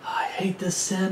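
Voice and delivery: imitating a whispered, ashamed admission; whispered confession. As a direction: breathe it out as a hushed confession. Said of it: "their head is held down going".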